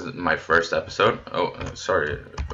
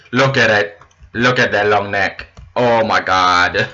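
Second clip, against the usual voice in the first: excited; 5 dB louder than usual. Real, not acted. Finds llamas in game.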